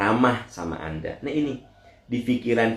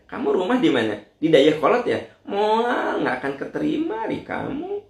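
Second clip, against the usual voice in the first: higher, snide busybody voice; stinging gossip; 9 semitones higher than usual. Retold or imitated. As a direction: make the remark cut. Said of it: "nyelekit gitu ngomongnya teh". (suara nyelekit yang lebih tinggi)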